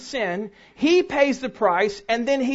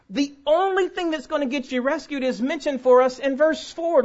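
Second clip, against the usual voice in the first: ordinary talk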